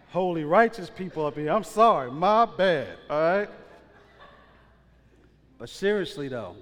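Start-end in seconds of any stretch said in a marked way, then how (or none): 0.1-3.5 loud, high, teasing mock hurt; mock offended. Real, not acted. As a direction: tease the crowd for pretending not to know. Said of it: "y'all ain't heard the song".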